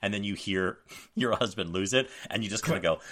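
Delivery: ordinary delivery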